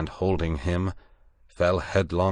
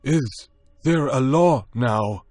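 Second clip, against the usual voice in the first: higher, louder, slow pleading beast; anxious monkey man; 8 semitones higher, 6 dB louder, slower than usual. A narrator's reading. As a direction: ask it as a frightened ape. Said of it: "asked the monkey man".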